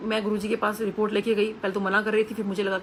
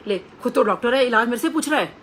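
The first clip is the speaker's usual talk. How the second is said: loud playful teasing, voice raised; jovial teasing guru; 2 semitones higher, 5 dB louder than usual. Retold or imitated. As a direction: tease her like a jolly guru scolding a doctor. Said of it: "बहुत jovial nature के गुरुजी थे". (मज़ाकिया, ऊँची आवाज़ में छेड़ते हुए)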